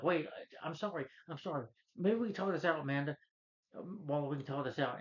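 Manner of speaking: high, hurried begging with a drop to near-whisper on the apologies; imitating a panicked villain pleading. Vertigo begging Waller for his life.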